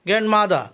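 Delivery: গ্র্যান্ডমাদার ending "mada", no R; silent final R. Shown as a demonstration. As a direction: leave the last R off গ্র্যান্ডমাদার. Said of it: "লাস্টে আর এর উচ্চারণ হবে না". (গ্র্যান্ডমাদার, শেষে "মাদা", র ছাড়া)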